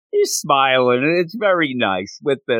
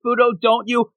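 dreamy coaxing; 10 semitones higher than usual. Retold or imitated. She dreams of open dating.

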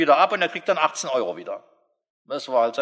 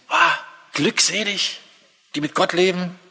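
dreamy bliss; 4 semitones higher than usual. Retold or imitated. Sleepless man sighing blissfully.

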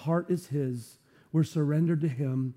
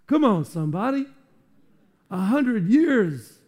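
rising to a loud, higher preacher's cry; preaching shout; 4 semitones higher, 6 dB louder than usual. Real, not acted. Pastor rallying the congregation, loud preaching. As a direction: preach it out, building to full force.

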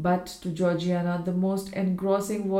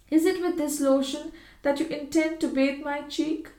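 a hint of a worried wife, higher; anxious; 8 semitones higher than usual. A narrator's reading. Wife fears the lotion is meant for her cheek, mildly anxious. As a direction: ask it with mild unease. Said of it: "asked Georgiana anxiously".

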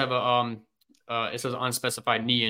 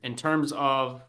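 losing the thread, voice dropping away; trailing off; 6 dB quieter than usual. Real, not acted. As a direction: trail off mid-thought, softer. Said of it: "I lost my train of thought".

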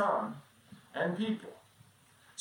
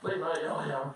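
put-on sleepy kid voice. Kid pretending to wake.

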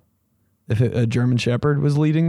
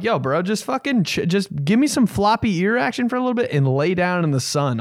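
mock pleading; 8 semitones higher than usual. Pleading with dog to relax.

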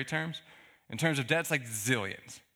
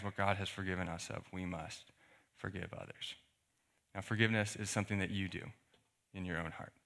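hushed earnest; 5 semitones lower, 8 dB quieter than usual. Real, not acted. Soft close of the sermon point.

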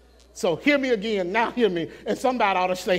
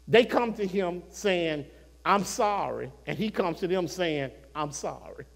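hushed preaching; 3 semitones lower, 5 dB quieter than usual. Acted. Preacher softly telling the church of Joseph's apology. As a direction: draw them in quietly.

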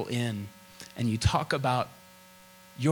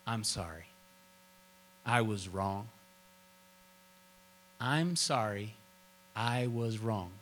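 tender apology; 3 semitones lower, 6 dB quieter than usual. Retold or imitated. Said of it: "And he'd say".

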